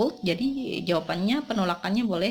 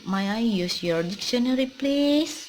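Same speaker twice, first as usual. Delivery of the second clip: PLEASE stretched high and rising; asking permission; 4 semitones higher, 3 dB louder than usual. Shown as a demonstration. Teacher models asking for the dictionary, questioning lift on PLEASE. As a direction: lift PLEASE up as a polite request. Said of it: "kalau asking for permission, untuk kalimat izin".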